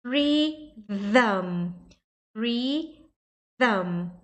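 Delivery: "rhythm" slowly, split as "ree... thum"; "rhythm" drawn out, tongue between teeth on TH; TH plus "um". Shown as a demonstration. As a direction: model "rhythm" in two separated syllables, voiced TH. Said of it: "E vai fazer um zam no final".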